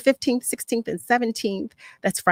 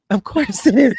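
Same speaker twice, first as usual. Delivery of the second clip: louder, laughing through the words; laughing repeat; 3 semitones higher, 6 dB louder than usual. Real, not acted. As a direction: repeat it again, now laughing.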